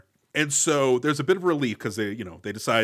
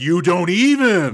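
mock outraged huff; 4 semitones higher, 7 dB louder, slower than usual. Voicing outraged white guy.

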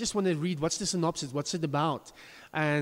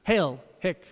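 bad American accent; 3 dB louder than usual. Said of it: "I'm doing a very bad American accent here".

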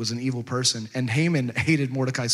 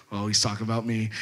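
low, smug little aside to himself; lightly voiced self-satisfied pride; prideful aside; 5 semitones lower, 3 dB quieter than usual. Haman privately sure the king means him, prideful aside. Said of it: "'cause this is Haman's pride, you know, pride".

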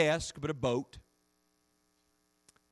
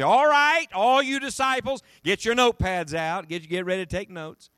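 a pretend teacher rounding up the class; mock classroom teacher; 3 semitones higher, 5 dB louder than usual. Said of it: "didn't get everybody together and say".

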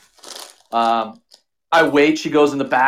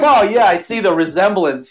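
sucking it up; 6 semitones higher, 5 dB louder than usual. Retold or imitated. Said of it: "I just suck it up".

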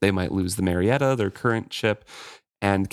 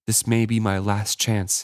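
said simply. Acted. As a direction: lay it out simply, no push. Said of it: "he said simply".

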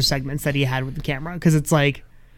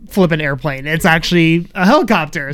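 mock shock; 3 semitones higher than usual. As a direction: act shocked, sarcastically. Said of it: "I was shocked".

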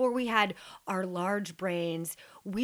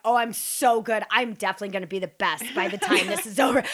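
louder, fast, cocky self-praise; boastful excitement; 3 semitones higher, 8 dB louder, faster than usual. Retold or imitated. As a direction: crow about yourself like an overconfident kid. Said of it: "I'm like".

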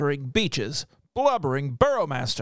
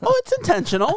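toy megaphone; faster than usual. Real, not acted. Clown joke, playful rebuttal.

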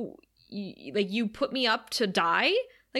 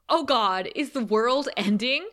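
a bright, louder Cordelia; imitating Cordelia; 4 semitones higher, 4 dB louder than usual. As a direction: toss it off like Cordelia. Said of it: "and she says".

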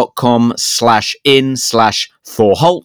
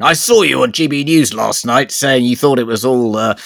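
mock outraged stranger, squeak on crazy; angry member of the public, mocked; angry heckler; 3 semitones higher than usual. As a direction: pick a fight like an irate viewer. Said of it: "wanting to pick an argument".

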